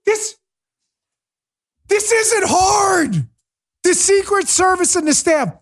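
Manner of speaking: high-pitched, drawn-out frustration; exasperated rant. Real, not acted. Host fed up that it is so simple, high exasperation. Still ranting over the red carpet.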